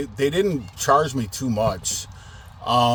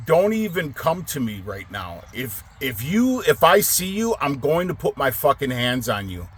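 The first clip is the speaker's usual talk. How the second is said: 1 furious threat; 2 semitones higher than usual. Retold or imitated. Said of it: "that's how mad I was".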